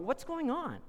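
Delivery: high, loud indignant protest; loud complaining. Acted. Early workers complaining to each other about unfair pay. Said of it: "you start complaining".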